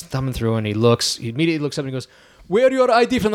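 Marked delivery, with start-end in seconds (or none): 2.5-3.3 barked official's question, pitched up; stern customs officer. Retold or imitated. Customs officer challenges the comic's ID, pitched-up demand. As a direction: play the suspicious border guard.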